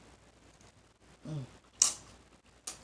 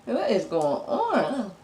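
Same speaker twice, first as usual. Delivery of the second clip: amazed; 2 semitones higher, 6 dB louder, slower than usual. Real, not acted. Amazed by the food.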